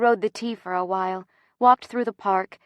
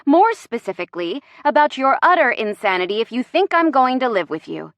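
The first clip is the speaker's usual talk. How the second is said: higher-pitched indignant rant; exasperated and insistent; 4 semitones higher than usual. Acted. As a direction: confront them, piling up grievances. Indignant confrontation over the move.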